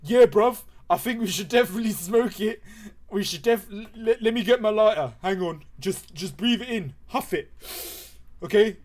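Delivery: loud, high, stammering lad voice; excited chav friend. Acted. Tyler's friend getting his lighter out, excited chav voice. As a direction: agree loudly and fumble along. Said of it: "His friend's called, uh, Adrian".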